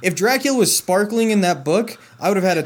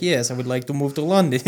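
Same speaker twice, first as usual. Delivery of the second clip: put-on Transylvanian accent; 4 semitones lower than usual. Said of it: "that's my Transylvanian accent".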